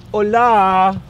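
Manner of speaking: a sharp, loud call to the dog. Real, not acted. Owner calls the dog Ulla away from trouble, loud and sharp. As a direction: call her off firmly.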